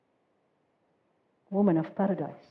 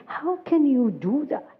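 retold pained cry; 3 semitones higher, faster than usual. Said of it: "she was crying in pain".

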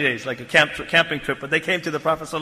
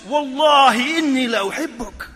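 "Wallahi inni la uhibbuk" at raised pitch; emotional emphasis; 5 semitones higher than usual. Shown as a demonstration. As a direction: let feeling swell through "Wallahi inni la uhibbuk". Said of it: "You can read the emotions".

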